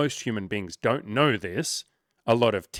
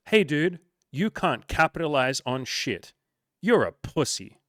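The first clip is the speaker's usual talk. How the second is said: higher, louder, harsh mock put-down; mock insulting friend; 5 semitones higher, 5 dB louder than usual. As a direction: berate a buddy, acted and louder. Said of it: "Would you say".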